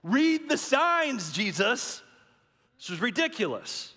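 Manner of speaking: high, loud pleading with Jesus; frightened pleading. Retold or imitated. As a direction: beg him to read the signs. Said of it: "the disciples are thinking".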